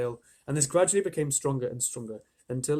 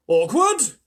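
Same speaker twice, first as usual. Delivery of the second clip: much higher, louder indignant worm; outraged cry; 10 semitones higher, 10 dB louder than usual. A narrator's reading. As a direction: spit the word back in disbelief. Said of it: "cried the earthworm".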